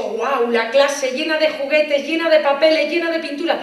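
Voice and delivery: 1 excited wonder. Retold or imitated. Child imagining full classroom.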